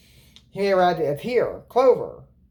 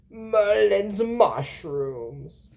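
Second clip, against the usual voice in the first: slow drawn-out character voice; 3 semitones higher, much slower than usual. Retold or imitated. Retelling a character's line.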